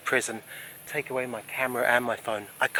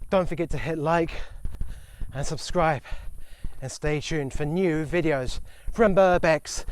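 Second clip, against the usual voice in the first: loud, high rising sign-off; hyped outro; 5 semitones higher, 7 dB louder, slower than usual. Real, not acted. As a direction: shout the channel name.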